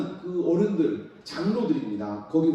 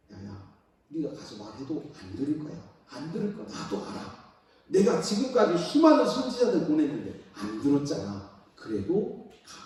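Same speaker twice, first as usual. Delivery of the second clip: God's voice. Acted. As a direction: speak gently as God persuading. God voiced quietly, gently. (조용하고 부드러운 하나님 목소리)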